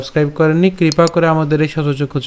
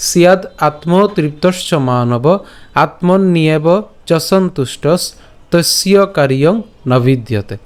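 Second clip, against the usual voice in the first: slow, measured Sanskrit shloka; full verse recitation; slower than usual. Shown as a demonstration. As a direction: recite it phrase by phrase, slowly and clearly. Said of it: "প্রথম থেকে আবার বলছি আমি".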